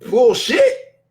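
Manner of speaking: a sharp rising scoff; incredulous, rising "bullshit"; scoffing exclamation. Real, not acted. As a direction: call it out in disbelief. Rejecting the money excuse.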